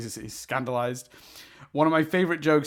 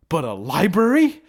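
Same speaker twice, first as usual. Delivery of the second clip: laughing; 9 semitones higher, 6 dB louder than usual. Real, not acted. Laughing at favorite joke.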